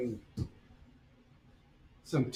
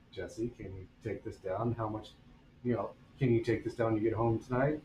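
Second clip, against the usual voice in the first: kind principal. Retold or imitated. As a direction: ask him nicely, hushed and calm. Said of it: "He was very nice to me".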